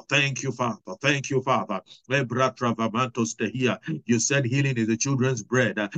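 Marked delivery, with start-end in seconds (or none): 2.1-3.8 flowing prayer in tongues. Real, not acted. Preacher leads congregation praying in tongues. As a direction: murmur in tongues, steady.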